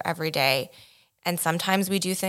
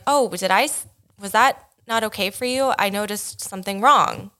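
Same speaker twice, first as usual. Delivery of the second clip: gentle checking in; 3 semitones higher than usual. Shown as a demonstration. Partner gently checking in after a misstep. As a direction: ask gently if something went wrong. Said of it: "kind of change your tone".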